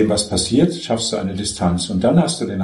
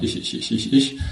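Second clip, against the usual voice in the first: mock ego chatter; 2 semitones higher than usual. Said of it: "nicht dauernd".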